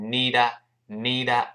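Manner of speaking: "need，need" with the sounds run together; linked pronunciation. Shown as a demonstration. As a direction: say "need，need" joined up in one piece. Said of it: "连读到一块儿".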